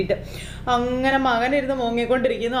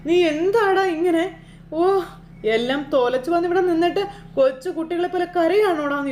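angry scolding; 6 semitones higher than usual. Retold or imitated. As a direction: tear into him for crying like a child. Mother scolds crying son.

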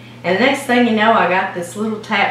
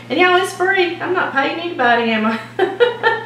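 excited; 8 semitones higher than usual. Real, not acted. Joking delight about free therapy.

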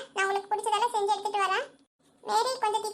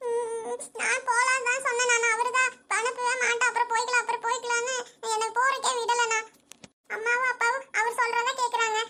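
sobbing, then tearful explaining; crying. Acted. Sister explains she was not allowed home, crying. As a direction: explain through tears, ending in a sob. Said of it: "அழுகாத சாமி".

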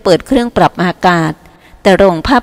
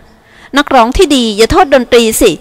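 lightly voiced teasing dancer; 4 semitones higher than usual. Dancer teases him about music.

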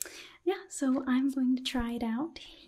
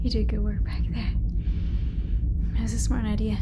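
louder spoken roleplay, giving orders; sci-fi crew member; 6 dB louder than usual. Acted. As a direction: call out commands to the ship computer, louder. Sci-fi roleplay, hunting the alien.

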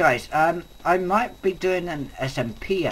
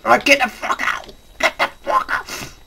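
loud, angry order to leave; angry yelling; 7 semitones higher, 4 dB louder than usual. Real, not acted. Yelling at spiders.

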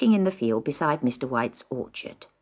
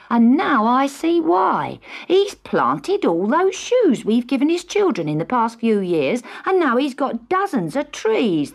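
indignant father; 5 semitones higher, 4 dB louder than usual. A narrator's reading. Mr Martin indignant to family.

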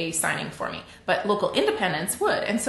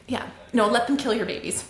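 normal talking voice

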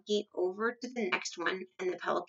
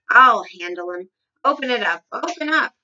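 loud, commanding bluster; bellowed; 10 dB louder than usual. A narrator's reading. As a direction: bellow orders with bravado. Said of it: "bellowed the Duke".

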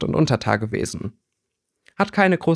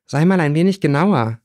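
urging; 4 semitones higher than usual. Acted. Winona presses the boy for details, urging. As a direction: press him to spill it. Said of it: "drängte Winona".

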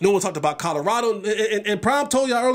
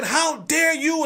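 mock outrage; 6 semitones higher, much slower than usual. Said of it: "And people said".

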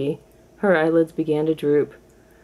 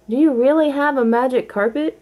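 little kitten voice; 8 semitones higher than usual. A narrator's reading. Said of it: "asked Marie".

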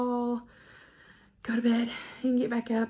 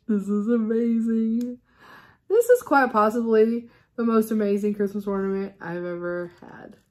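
excited; 6 dB louder than usual. Real, not acted. Raving about ornament.

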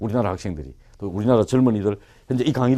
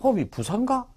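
softly thinking aloud, searching for the word; puzzled muttering; 2 semitones higher, 10 dB quieter than usual. Retold or imitated. Student trying to recall "go home" in English, puzzled muttering. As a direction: act a learner groping for a word, half under the breath. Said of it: "이런 식으로 생각해요".

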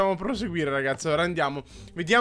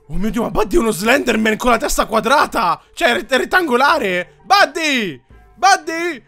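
shocked; 5 dB louder than usual. Real, not acted. Shocked at character look.

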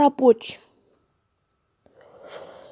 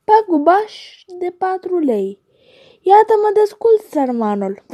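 high, hammed-up whimper; mock weeping gander; 5 semitones higher than usual. The gander lamenting his loss to the geese, high and pitiful. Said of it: "plângea gâscanul".

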